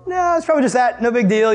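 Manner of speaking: high-pitched brushing it off; nervous self-reassurance. Acted. Scared camper listing explanations in their head, nervously reassuring. Talking oneself out of fear.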